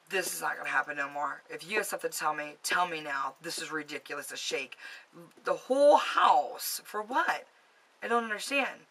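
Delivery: exasperated telling-off, acted out; indignant confrontation. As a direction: have it out with an unseen troublemaker. Confronting a ghost aloud.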